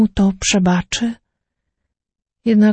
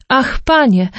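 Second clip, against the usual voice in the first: surprised exclamation; 5 semitones higher than usual. Acted. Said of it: "wykrzyknął ze zdziwienia".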